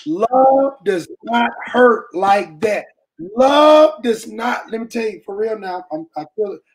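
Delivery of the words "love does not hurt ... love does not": preaching. Real, not acted. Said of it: "I might wanna get to preaching now".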